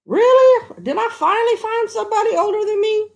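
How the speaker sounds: delighted disbelief; surprised. Real, not acted. Surprised by viewer's age.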